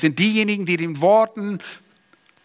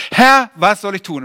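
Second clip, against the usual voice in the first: earnest plea; 5 semitones higher, 6 dB louder than usual. Retold or imitated. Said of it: "was Paulus gesagt hat".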